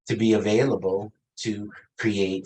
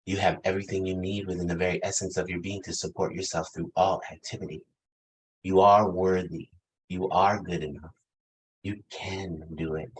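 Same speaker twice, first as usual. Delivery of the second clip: sweet voice. Retold or imitated. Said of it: "my Maya Angelou, my voice that says".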